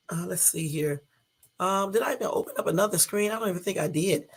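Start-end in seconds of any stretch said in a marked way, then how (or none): 0.1-1.0 whispered aside. Real, not acted. Muttering to herself at screen.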